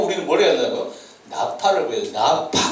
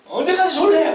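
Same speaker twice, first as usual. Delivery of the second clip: high, loud teasing call to sleepers; loud wake-up call; 12 semitones higher, 3 dB louder than usual. Shown as a demonstration. Pastor waking sleepy students in the pew, loud teasing call. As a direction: yell it to rouse dozing kids. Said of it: "막 이렇게".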